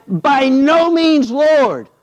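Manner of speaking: Peter refusing. Retold or imitated. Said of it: "But Peter said".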